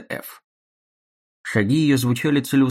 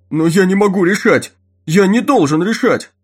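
desperate cry; 7 semitones higher, 7 dB louder than usual. Acted. Guard desperate.

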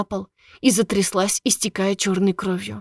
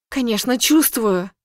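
snide; 3 semitones higher than usual. Acted. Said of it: "ехидная улыбка".

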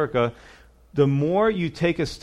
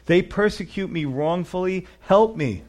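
crying out to God; 3 semitones higher than usual. Retold or imitated. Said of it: "crying out to God".

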